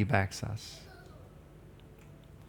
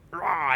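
small, higher-pitched cub roar; bear cub roar; 6 semitones higher than usual. Acted. Preacher imitates the bear cub in his story, small roar. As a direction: imitate a little cub's roar. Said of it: "the bear cub goes up and goes".

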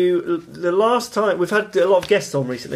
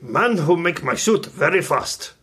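put-on Japanese accent; 2 semitones higher, slower than usual. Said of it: "it has to be said in a Japanese accent".

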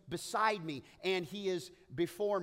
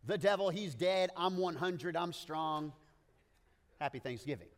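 mock hype post; 4 dB louder than usual. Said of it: "we would add".

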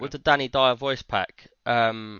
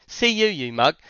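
Danny Dyer line; 2 semitones higher than usual. Retold or imitated. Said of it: "he'd say something like".

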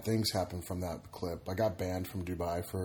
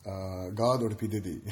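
put-on Arabic accent. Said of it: "that was the Arabic accent".

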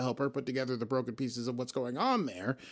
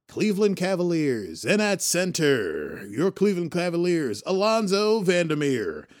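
loud, higher announcer intro; arena announcer calling the starting lineup; sports announcer; 6 semitones higher, 7 dB louder than usual. Pretend. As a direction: boom it out like a basketball announcer. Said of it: "who sounds like he plays for the nineteen ninety".

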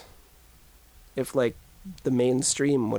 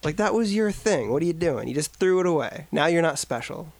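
scolding; 5 semitones higher than usual. Retold or imitated. Scolding the band, acted quote.

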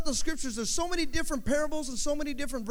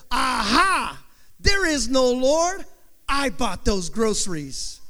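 gloating atheist; 4 dB louder, slower than usual. Acted.

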